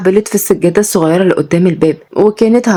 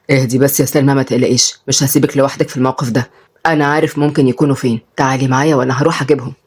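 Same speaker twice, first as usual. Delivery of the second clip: calm reassurance; 4 semitones lower than usual. Acted.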